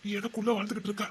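soft, intimate words of devotion; hushed adoration; tender endearment. Acted. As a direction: murmur it lovingly, just for the beloved. Lover's endearments to his wife.

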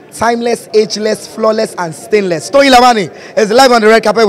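hyped red carpet host intro; gushing red carpet chatter. Acted. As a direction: announce her like a star arriving.

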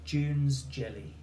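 spaced out for a spelling test; slow classroom dictation. Shown as a demonstration. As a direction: say it slowly so children can write. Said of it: "Two words".

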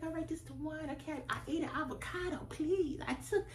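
high, whiny little-voice excuses; a hint of a sheepish kid pleading with her sister. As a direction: beg off like a kid caught snacking. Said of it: "I'd be like".

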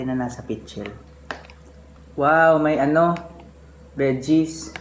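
lips against bowl rim; muffled, between sips; speaking into a bowl. Real, not acted. Seen 1: Bowl rim held at lips throughout, mouth hidden behind it.

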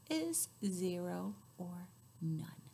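breathy hushed ending; whisper. Acted. Reading to a child, whispering the answer. Counting song ends in whisper.

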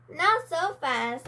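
slow, firm. Acted. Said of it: "said Goldilocks".

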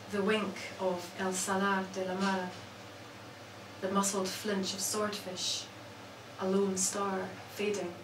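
measured recital with long pauses between phrases; poetry reading. Acted. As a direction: let each image land, then pause. Reads own poems aloud.

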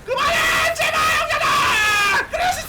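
cornered player wailing at enemies; desperate yelling. Real, not acted. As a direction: beg them to stop. Getting ganked, pleading.

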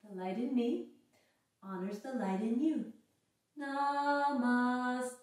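a calm closing phrase; soft yoga closing. Acted.

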